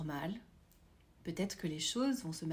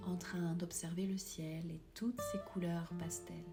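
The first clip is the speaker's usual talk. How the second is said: whispering; 3 semitones lower, 6 dB quieter than usual. Acted. Meditation imagery, whispered.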